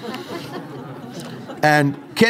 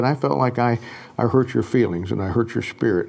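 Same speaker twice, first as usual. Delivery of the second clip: soft sincere apology; 3 semitones lower, 4 dB quieter than usual. Retold or imitated. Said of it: "I said".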